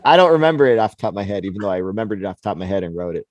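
quick flustered rush of words; fast rushed excuse. Real, not acted. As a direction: hurry through it, embarrassed. Rushing a self-mocking excuse.

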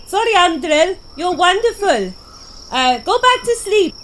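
teasing in character. Acted. Character Siliqui teases Undril in tent.

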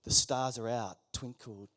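whispered, soft and low; soft whispered scene-setting; hushed storytelling. Acted. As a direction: draw them into the starry night in a hush. Guided imagination, eyes closed.

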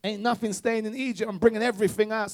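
put-on Jamaican yardie accent. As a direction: play Moses lightly with a Jamaican yardie lilt. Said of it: "he put on his yardie accent".

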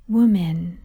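low, gentle call; soft, gentle, respectful. A narrator's reading. Dying son calls his mother from the cross, gently. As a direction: say it tenderly and with respect. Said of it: "It was so soft, in that gentle".

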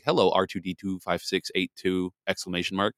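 lightly voiced robot reading letters. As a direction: read it like a flat robot. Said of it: "it sounds like a robot".

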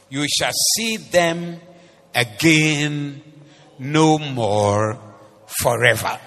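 preached prophet's command, slowing at the end; bold Moses. Acted. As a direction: proclaim it like Moses before the sea. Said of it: "Moses can speak like this".

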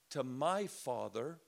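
slow, deliberate delivery; slowed emphasis. Shown as a demonstration. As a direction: lean into each word slowly. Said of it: "now he's gonna add something".

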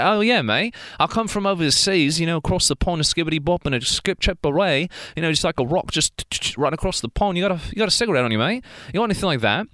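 lightly put-on British accent, chatty; a playful mock Brit from across the pond. Showing he can be anyone, in a mock British accent. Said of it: "I can talk like this".

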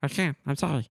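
squeaky high goblin. Acted. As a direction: pitch it way up, goblin-like. Goblin refusing payment.

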